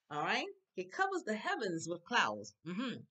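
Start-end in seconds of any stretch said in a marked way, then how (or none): 0.7-2.5 scripture recitation. Real, not acted. Reads scripture to the class.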